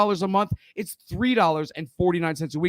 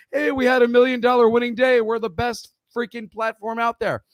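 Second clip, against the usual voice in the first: mock hype-man boast, higher and louder at first; boastful guru; 4 semitones higher, 4 dB louder than usual. Mocking other gurus touting their million dollar day, hammed-up boast. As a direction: imitate a guru touting big wins. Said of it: "I don't tout those like other gurus".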